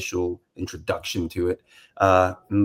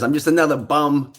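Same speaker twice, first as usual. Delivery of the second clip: quoting father; 7 semitones higher, 4 dB louder than usual. Retold or imitated. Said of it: "as my father says".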